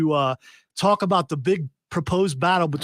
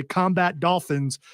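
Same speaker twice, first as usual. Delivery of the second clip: slow, relished combat dolphins; savoring the phrase; slower than usual. Real, not acted. Host on the mic, savoring his favorite phrase, slow. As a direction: say combat dolphins slowly, savoring each word. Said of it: "it makes me feel good about myself".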